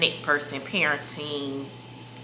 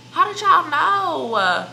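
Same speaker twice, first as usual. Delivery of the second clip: much higher, louder and slow, mock astonished; hammed-up shock; 12 semitones higher, 5 dB louder, much slower than usual. Teasing viewers about pregnancy rumors, in hammed-up shock. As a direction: squeal it like the secret's out.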